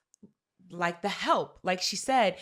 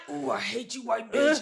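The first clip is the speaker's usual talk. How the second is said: mock resentment; 2 semitones higher than usual. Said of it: "A part of me is just like".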